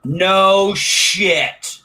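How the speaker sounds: loud and high, genuinely surprised; real amazement at the coincidence. Real, not acted. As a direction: blurt it out in real disbelief. Learns they share a home region.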